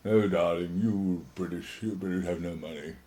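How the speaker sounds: soft, slow, lightly put-on gushing diva; a hint of a fond older actress purring; imitating Tulip Bank. Older actress teasing the young BBC man, softly gushing. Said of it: "Tulip Bank would say".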